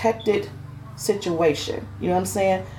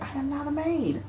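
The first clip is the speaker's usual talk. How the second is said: indignant inner protest; 9 semitones higher, 7 dB quieter than usual. Retold or imitated. Hurt, retelling her thought in car.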